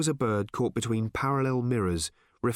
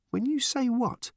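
demanding; 13 semitones higher than usual. A narrator's reading. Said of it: "demanded Random".

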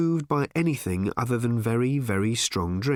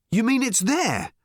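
higher, louder, eager disbelief; excited; 12 semitones higher, 3 dB louder than usual. Acted. Arthur reacting to the Guide entry on Earth, excited. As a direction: leap up in excitement. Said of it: "said Arthur excitedly".

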